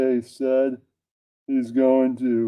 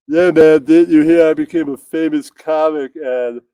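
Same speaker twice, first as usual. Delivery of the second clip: loud, lightly voiced bro; 3 semitones higher, 5 dB louder than usual. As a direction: brag like a street bro. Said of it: "All right, all N-words".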